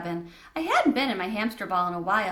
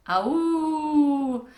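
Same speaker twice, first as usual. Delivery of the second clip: higher group bird-like hoot; bird call; 6 semitones higher, 4 dB louder than usual. A narrator's reading. Bob Whites make group call.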